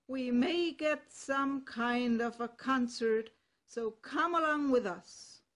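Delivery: loud, bold donkey voice; a confident ass calling out to a friend; hearty donkey. Acted. Ass invites the cock.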